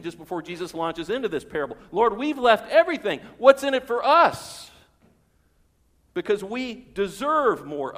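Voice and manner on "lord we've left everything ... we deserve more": much louder, higher, entitled; demanding Peter. Acted. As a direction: push for what you are owed.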